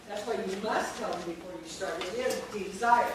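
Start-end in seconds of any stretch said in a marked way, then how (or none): 2.5-3.1 DESIRE as de-ZIRE, two beats only; two syllables. Shown as a demonstration. Teacher stating the syllable count, two-beat pronunciation. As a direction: say "desire" with "-sire" as one beat. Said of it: "It's a two-syllable word".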